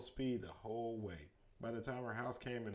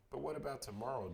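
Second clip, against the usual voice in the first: crying out; 5 semitones higher, faster than usual. Acted. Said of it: "Jared cried".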